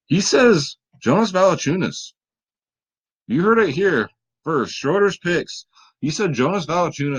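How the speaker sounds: high, gleeful disbelief; amused disbelief. Real, not acted. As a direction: announce the wild pick with a laugh in the voice. Amazed at Schroeder's surprise pick.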